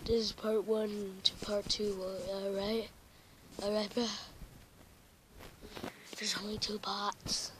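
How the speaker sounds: unvoiced whisper aside. Real, not acted. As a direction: whisper it off-mic.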